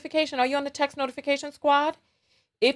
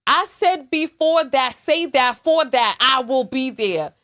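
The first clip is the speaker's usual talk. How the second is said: stammering imitation. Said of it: "You stammering, girl".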